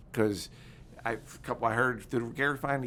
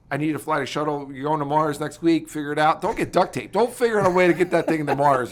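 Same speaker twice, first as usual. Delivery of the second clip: higher, louder acted command, building; mock military order; 3 semitones higher, 5 dB louder than usual. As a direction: give a hammed-up mission order.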